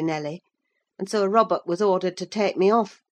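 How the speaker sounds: plain reading voice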